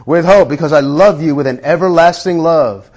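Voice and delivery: a tender devotional reading, unhurried; reverent letter reading. Acted. Preacher reading God's love letter to the congregation, gentle and intimate.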